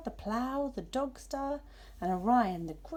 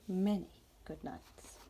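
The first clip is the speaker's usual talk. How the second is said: soft whisper; 2 semitones lower, 3 dB quieter than usual. Acted. Cat bids soft goodbye.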